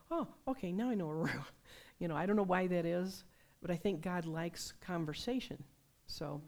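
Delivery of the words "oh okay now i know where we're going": surprised oh, then a laugh; sudden realization. Retold or imitated. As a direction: land on the insight, pleased. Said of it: "you go".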